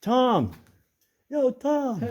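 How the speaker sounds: loud high call across the tunnel. Real, not acted. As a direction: shout a name to someone far away. Calling to distant friend in mine.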